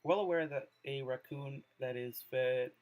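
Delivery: measured reading aloud with pauses between phrases; poem reading. Acted. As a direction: read the poem out carefully, phrase by phrase. Reads Yuri's poem aloud.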